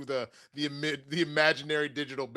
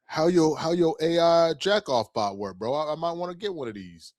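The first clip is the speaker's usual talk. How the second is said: loud casual bro; 4 dB louder than usual. Retold or imitated. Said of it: "be like".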